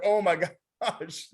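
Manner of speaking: a laugh breaking into the words; sheepish laughing realization; laughing oh my gosh. Retold or imitated. Caught out by his friend's answer, laughing.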